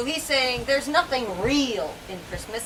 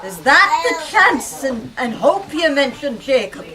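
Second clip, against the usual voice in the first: faltering voice; 3 semitones higher, 6 dB louder than usual. Acted. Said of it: "he demanded in a faltering voice".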